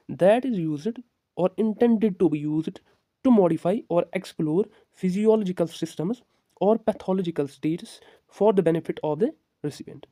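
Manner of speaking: slow, spaced dictation reading. Acted. Teacher to students, dictating the definition slowly. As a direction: read it out word by word for notes.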